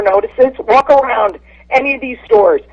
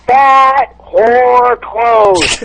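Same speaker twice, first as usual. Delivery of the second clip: Fat whore clothes dragged out very slowly, each word landed; slow punchline; much slower than usual. Acted.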